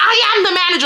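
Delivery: high, screamed, yelled comeback tone. Retelling the lady's reply during the argument: imitating someone screaming back. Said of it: "she's screaming back".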